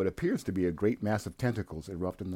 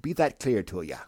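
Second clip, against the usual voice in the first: put-on old sea captain; 3 semitones higher, 4 dB louder than usual. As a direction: growl orders like a crusty sea captain. Gruff old sea captain lines.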